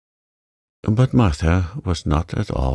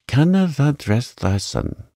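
amazed broad Yorkshire, pitched higher; 7 semitones higher than usual. Acted. Housemaid astonished at Mary, broad Yorkshire. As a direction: gape at her in broad Yorkshire. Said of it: "She spoke in broad Yorkshire in her amazement".

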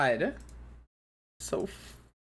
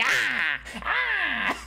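animated squeal. Shown as a demonstration. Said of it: "I'm such an animated person".

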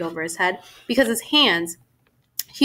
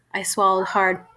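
ordinary delivery

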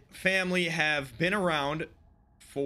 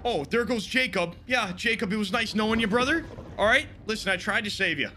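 mock eulogy; 6 semitones higher, 4 dB louder than usual. Real, not acted. Mock farewell to dying character.

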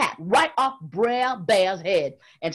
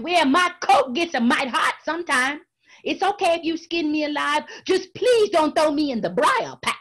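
sly pleading; 7 semitones higher, 4 dB louder than usual. Acted. Rabbit pleading craftily.

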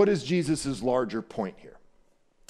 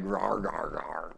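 animal gnawing noise; 7 semitones lower, 6 dB quieter, slower than usual. Shown as a demonstration. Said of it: "sounds like what it means".

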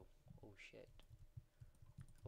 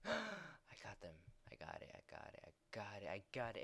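excited; 3 dB louder than usual. Real, not acted. Capturing the objective.

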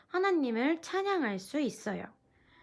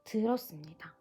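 closing prayer. Acted. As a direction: pray gently over the children, trailing off.

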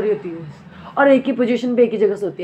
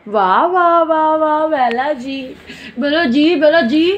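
cooing praise; 4 semitones higher, slower than usual. Real, not acted. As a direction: cheer her on like a proud fan. (ऊँची आवाज़ में ठाठ से वाहवाही)

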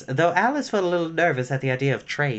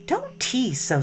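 annoyed; 9 semitones higher, slower than usual. Acted. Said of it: "said Alice".

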